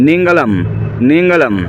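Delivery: teacher modelling নেঙ্গালাম; Malayalam word demo. Shown as a demonstration. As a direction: repeat নেঙ্গালাম for the learner. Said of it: "Malayalam ভাষায় কী বলে?".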